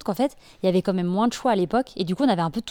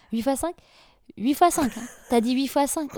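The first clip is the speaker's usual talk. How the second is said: higher questioning echo, with pauses; mock stalling; 4 semitones higher than usual. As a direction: play a pupil buying time. Acts out pupil stalling on times table.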